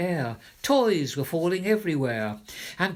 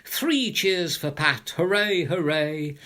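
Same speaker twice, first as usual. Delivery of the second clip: cheering; 2 semitones higher, 4 dB louder than usual. Acted. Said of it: "The people began to shout".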